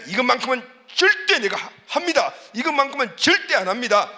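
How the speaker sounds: lightly voiced stubborn resolve; firm vow. Believer vowing never to do something, lightly emphatic.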